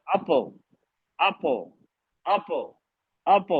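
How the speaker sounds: اپ with an echoing bounce at the end; bouncing qalqala. Shown as a demonstration. Teacher demos qalqala on اپ for students. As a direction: let the sound of اپ rebound. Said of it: "اب میں پڑھ-، کلکلا کروں".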